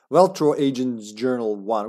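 lightly put-on Russian accent. Gamer reading an agent's journal, Russian accent. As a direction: read it with a slight Russian accent. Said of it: "give him a Russian accent".

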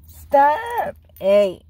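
loud, sharp command; scolding the dog. Real, not acted. Owner orders squeaking dog to stop, loud scold. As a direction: rap it out to stop a pup.

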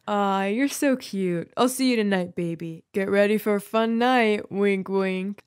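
smarmy fake sweetheart, lightly voiced; funny older-man accent. Joe teasing the teacher on the phone, mock-older accent. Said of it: "he'd put on a funny accent".

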